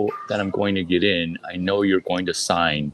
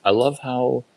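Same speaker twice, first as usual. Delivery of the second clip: higher eager fan gushing; 5 semitones higher than usual. Retold or imitated. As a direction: gush like a starstruck fan. Fan voice to author.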